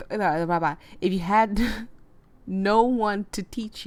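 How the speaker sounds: slow, giggling; laughing while speaking. Real, not acted. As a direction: break into laughter. Laughing mid-line.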